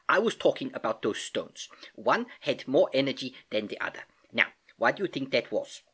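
put-on accented uncle teaching, key words lifted; patient Uncle Albert, explaining. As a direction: explain it like an eager old professor uncle.

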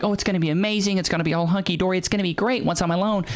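high, sing-song mock of her hopes; mocking naive woman. Mocking the divorced woman's naive hopes, in a high sing-song voice. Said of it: "She was thinking, like".

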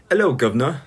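stock Cockney-style British greeting; British accent attempt. Shown as a demonstration. Streamer trying to save face, put-on British accent. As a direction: put on a hammy British hello. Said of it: "do any British accent".

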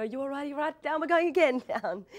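high-pitched, climbing to a loud cry; urgent warning, building, breaking into laughter; urgent check. Retold or imitated. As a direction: imitate a hurried check before the plunge. Imitates co-star ducking her again.

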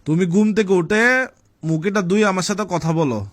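bellowing like a bull. Real, not acted. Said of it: "ষাঁড়ের মতো চিল্লাইতেছো". (ষাঁড়ের মতো চেঁচিয়ে বলা)

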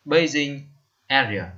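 bathing area said slowly, every syllable clear; bathing area spelled out for the class; teacher's model phrase. Shown as a demonstration. Teacher models the new phrase for learners, slow and clear. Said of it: "Bathing area viết như sau".

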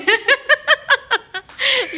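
very high teasing laughter. Real, not acted. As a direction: laugh as you tease her. Teasing shy stylist.

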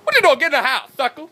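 very high, loud bellow; outdoor LA voice. Retold or imitated. Ordering the dog home, high loud outdoor yell. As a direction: roar it like a tough neighbour. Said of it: "my outdoor L A voice".

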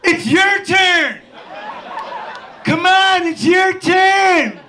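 calling up the mountain to a friend; far-off yell. Retold or imitated. Brother yelling up the slope.

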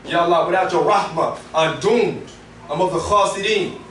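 lightly acted plea, pitched a little down; a touch of tearful supplication; pleading cry to God. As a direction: plead for forgiveness, understated. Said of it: "Cry to him and say".

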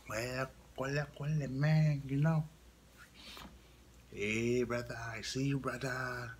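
Hawaiian accent. Shown as a demonstration. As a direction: show off a bit of Hawaiian accent. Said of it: "Here's the Hawaiian stuff".

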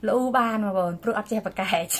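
words bubbling with laughter; laughing while talking. Real, not acted. Vlogger joking to viewers that cats never argue, laughing. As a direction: get the line out through a laugh.

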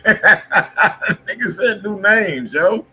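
words squeezed out through loud laughter; real laughter over every word; cracking up while he repeats it; laughing. Real, not acted. Laughing at the new names.

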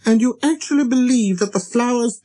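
put-on high child-prince challenge; little prince, indignant. A narrator's reading. Little prince confronting the pilot over flowers, indignant.

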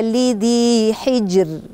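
slow حجر with a thin, light final r; light raa. Shown as a demonstration. Teacher showing the boy the thin r in حجر. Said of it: "أرقق الراء".

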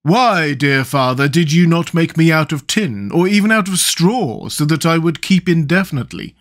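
high, loud woeful pumpkin man; plaintive, high-pitched character complaint; moaning lament. A narrator's reading. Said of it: "moaned Jack".

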